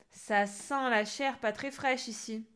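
slow, sniffing suspicion; suspicious witch. Acted. Witch smelling the intruder, slow and suspicious. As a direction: drag it out, sniffing the air.

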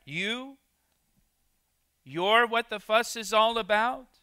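a governor who can't believe this is the threat; incredulous Pilate. Acted. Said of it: "Maybe Pilate asked this question in disbelief".

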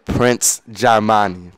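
loud, drawn-out "Prince Jamani" with an open MAH; careful pronunciation. Shown as a demonstration. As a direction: say "Prince Jamani" slowly, syllable by syllable, jah-MAH-nee. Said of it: "Pronounce it right, please".

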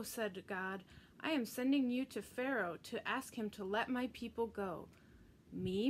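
put-on gentle storybook reading for Sunday school kids; expressive children's story narration. A narrator's reading. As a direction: read it like a bedtime Bible story. Reads Bible story to children.

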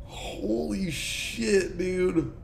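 slow, breathless, hushed disbelief; shaken whisper. Real, not acted. Streamer recovering after the scare, shaken and hushed. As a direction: whisper it, still rattled.

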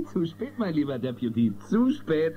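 chuckling, amused warning; a playful laugh at his friend's bad luck; teasing laugh. Teasing deputy as Mace approaches.

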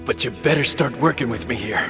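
low, halting injured voice; weak, wounded plea. Acted. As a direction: plead through pain, voice sunk low. Wounded man pleading for help.

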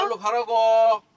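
slow stern loud order. Real, not acted. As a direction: drag it out as a stern command. Dad insists kid move.

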